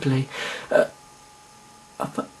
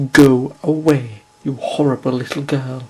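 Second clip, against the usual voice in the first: angry dismissal; 3 semitones lower, 5 dB louder than usual. Acted. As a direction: throw her out with scorn. Landlady dismisses Astra.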